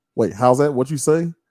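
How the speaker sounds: normal talking voice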